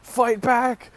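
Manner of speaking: high, loud mock yell; imitated screaming. Girl shouting at her beaten date, imitated scream. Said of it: "the girl that I'm with is screaming".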